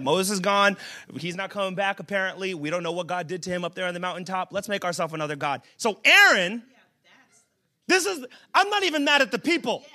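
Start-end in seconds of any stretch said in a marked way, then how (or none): 0.0-5.6 acted low, soft grumble of a crowd; hushed retelling of the people's talk; quiet aside. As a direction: drop voice and pitch, as if conferring.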